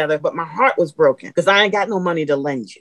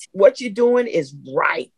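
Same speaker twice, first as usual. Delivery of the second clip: slower, leaning on doing; slow emphatic repeat. Real, not acted. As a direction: draw it out so it sinks in.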